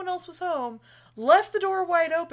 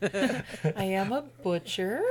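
deadpan character; 6 semitones lower, slower than usual. Pretend.

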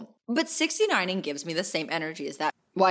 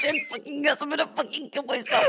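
mock despair; 9 semitones higher than usual.

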